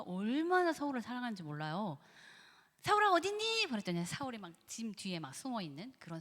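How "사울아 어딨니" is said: high, loud call. Acted. God calling out to Saul, who is hiding. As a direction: call out searching for him.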